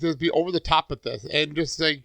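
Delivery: over-the-top mock condescension, laughing toward the end; put-on condescending voice, rising into laughter. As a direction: imitate someone over-explaining, hamming it up. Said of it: "It's very condescending".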